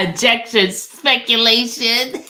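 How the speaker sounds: hammed-up attorney in court; mock lawyer objection.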